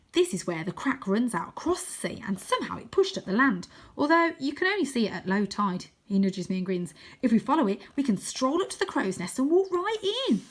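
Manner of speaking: put-on excited kid explaining his discovery; a hint of an eager young boy; eager boy Wynne. Voices Wynne in story.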